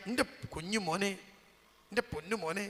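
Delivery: soft, affectionate call to a little son; softly voiced loving father; tender fatherly call. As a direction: imitate a father gently coaxing his child. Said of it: "മോനോ വിളിക്കുന്ന വിളി ഇങ്ങക്ക് കേൾക്കാം".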